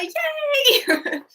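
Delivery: mock cheer. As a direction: cheer in an exaggerated high voice. Mock cheer at shared trouble.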